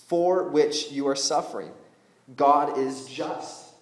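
loud, emphatic Bible reading; scripture reading aloud. Acted. Preacher reading Paul's letter to the church, emphatic reading. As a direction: read it out firmly to the whole room.

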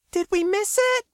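very high, eager question; excited yet disappointed. A narrator's reading. KB asks from behind, excited and disappointed at once. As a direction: ask breathlessly eager, half let down. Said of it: "sounding excited and disappointed at the same time".

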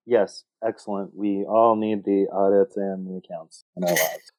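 dry mock enthusiasm; sarcastic. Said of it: "says that so sarcastically".

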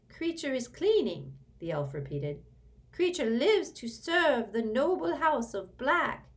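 put-on cling to duty like a fanatic old servant; proud house-elf. A narrator's reading. House-elf repeats his excuse to Sirius, high and proud.

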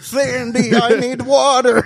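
mock her parched, squeaky begging; imitating her voice. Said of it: "That's her voice".

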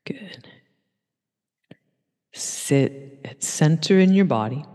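hushed, breathy whispered cue. Real, not acted. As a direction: whisper it gently to the class. Calm cue during seated stillness.

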